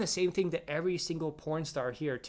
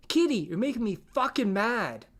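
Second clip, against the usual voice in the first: higher, exasperated mock outburst; mock anger; 4 semitones higher, 3 dB louder than usual. Reading a viewer's angry comment to a streamer, mock exasperated. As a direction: act out an irate pestering viewer.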